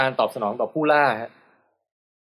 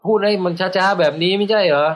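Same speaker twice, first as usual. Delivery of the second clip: mildly drawn-out words at a higher pitch; slow-talk demo; 5 semitones higher, 3 dB louder than usual. Shown as a demonstration. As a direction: demonstrate a leisurely southern way of talking, pitched up.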